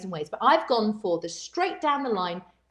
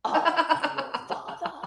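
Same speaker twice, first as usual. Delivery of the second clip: quiet, slow take breaking into a laugh; soft Vader attempt; 3 semitones higher, slower than usual. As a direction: try it softly and crack up. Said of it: "I think he sort of went".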